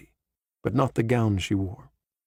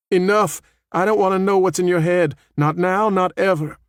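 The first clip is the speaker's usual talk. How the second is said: loud, higher exasperated shout; angry outburst; 8 semitones higher, 5 dB louder than usual. Acted. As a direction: cut him off sharply, fed up. Claire covers ears, cuts him off.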